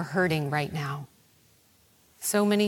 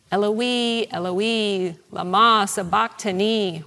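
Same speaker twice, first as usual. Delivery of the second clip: measured, mildly raised cry of forsakenness; 5 dB louder than usual. Retold or imitated. Jesus cries out from the cross, restrained imitated cry. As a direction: imitate a cry to God, without shouting. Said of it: "he cried out".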